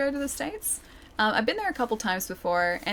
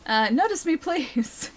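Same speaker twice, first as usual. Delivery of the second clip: pleading; 6 semitones higher, slower than usual. Acted. Begging chat to notice.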